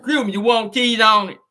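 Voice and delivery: mock the worker's country way of talking; country drive-thru worker. Worker at the drive-thru window asking, lightly country. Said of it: "You know that's how he talk".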